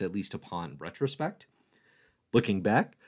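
ordinary delivery

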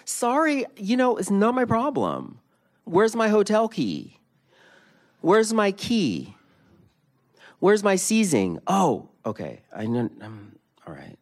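loud high mock panic; hammed-up hotel flap, high and loud; flustered tourist. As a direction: play the rattled guest hunting for a key. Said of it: "I was like".

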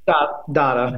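"data" with a broad ah; broad-a pronunciation. Shown as a demonstration. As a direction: say "data" as DAH-tuh. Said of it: "Is it data or data?".

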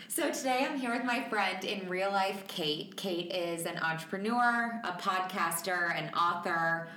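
echoey room sound; echoey mic. Real, not acted. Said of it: "I feel like I sound very echoey".

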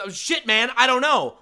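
loud, high helpless cry; acted-out fluster; retold panic. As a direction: exclaim it in helpless alarm. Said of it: "I say".

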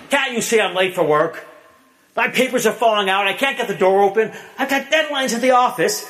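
half-acted husband snapping, pitch climbing; retold yell. Husband snaps at his wife over the trash, mock angry yell. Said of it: "He yells".

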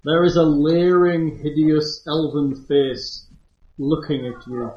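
ominous game master narration; second person narrator. Acted. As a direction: set the creepy scene.

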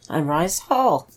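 slightly husky, scratchy voice. Real, not acted. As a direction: speak with a little husky scratch. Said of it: "Got that little husky tilt to your voice".

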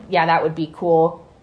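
talking between sips of water; words around a swallow of water; while sipping a drink. Real, not acted. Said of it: "Sorry, I'm drinking water".

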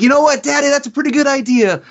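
high-pitched quoted character voice; Fonzie. Retold or imitated. Wrestling legend answers his drinking buddy's bit idea, in a high put-on voice. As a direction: pitch it well up, imitating a pal's reply. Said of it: "and he's like".

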